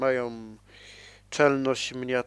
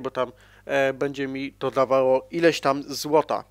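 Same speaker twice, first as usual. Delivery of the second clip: ordinary talk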